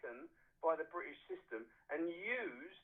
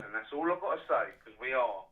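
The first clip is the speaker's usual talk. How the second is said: rallying loud declaration; 6 semitones lower, 8 dB louder than usual. Real, not acted. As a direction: drive each word home like a battle cry. Caller rallying listeners for war.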